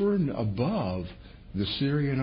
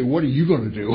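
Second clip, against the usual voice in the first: mock question laughing; 2 semitones higher, 7 dB louder, faster than usual. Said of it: "He didn't say".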